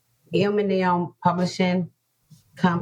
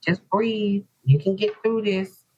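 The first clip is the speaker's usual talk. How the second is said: coaxing support; 5 semitones higher than usual. Retold or imitated. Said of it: "And they were like".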